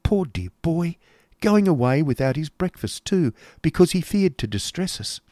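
high, lilting motherly fussing; fretting mother. Acted. Mother pitying her departing son, fretting. Voicing Mrs Nickleby.

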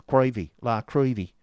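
mincing high lady; prim lady voice. A narrator's reading. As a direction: say it primly, lady of fifty. Miss La Creevy voice.

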